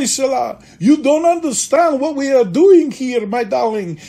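loud, playful jab at a colleague; teasing mock shout. Actor teasing his dance partner in rehearsal, mock loud. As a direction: rib her like an old stage pro.

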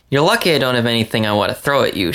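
fast, mildly snappy retort; spat. Acted. Emma glaring at Vince, a quick mock-angry spat. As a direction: rattle it off in mock annoyance. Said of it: "she spat".

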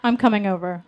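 a touch of smug male pride; swelling with pride. Acted. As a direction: relish it proudly. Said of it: "his voice swelling with pride".

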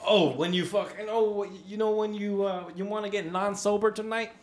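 high dopey stoner bro. Pretend. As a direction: ham up a stoned party bro. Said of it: "I was saying that as a joke".

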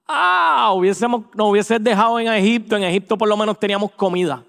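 a hint of a whiny cry to go back; lightly voiced grumbling Israelites; mock complaint. Israelites complaining to Moses, mild mock whine. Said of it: "qué fue lo que inmediatamente gritaron".

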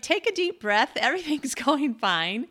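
lightly laughing, imitate a friend calming you down; amused reassurance. Friend laughing at her worried client, amused reassurance. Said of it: "she just starts laughing".

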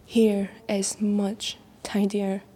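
normal talking voice

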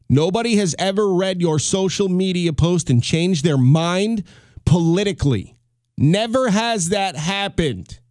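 each word spelled out slowly for the back row; said slow and clear. Shown as a demonstration. Podcaster to social media posters, slow and emphatic. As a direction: lean on it so the back row hears. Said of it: "let me say this slow, I'll say it so that the people in the back can hear it".

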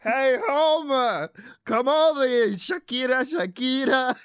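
lightly voiced Simpsons Barney; Barney impression. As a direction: call to Homer like Barney. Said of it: "how Barney sounds".

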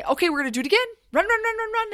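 high, loud chant of run, run, run; drill sergeant shout. Retold or imitated. Coach to runners on treadmills, high urgent shout. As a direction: drive them into the sprint.

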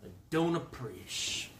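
quiet mock displeasure; subdued complaint. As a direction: let it drop to a soft grumble. Same complaint, toned down.

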